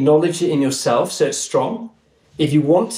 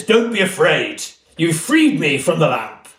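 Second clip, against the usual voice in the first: lightly voiced booming English genie; 3 semitones higher than usual. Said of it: "he's got this big booming voice".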